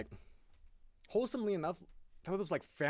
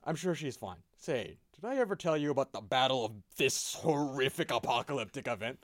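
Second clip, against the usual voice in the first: Space Marine Terminator; 3 dB louder than usual. Acted. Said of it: "The Space Marine Terminator".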